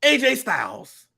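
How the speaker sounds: overly happy Irish backstage interviewer; a light send-up of a sunny Irish announcer; mock cheery announcer. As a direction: play the announcer far too chipper. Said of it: "he seems too happy".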